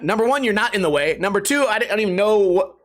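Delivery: usual speaking voice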